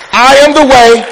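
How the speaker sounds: "I am the way" high and loud; emphatic declaration. Retold or imitated. Preacher quoting Jesus to the church, "I am the way" said emphatically. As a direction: proclaim "I am the way" with full emphasis.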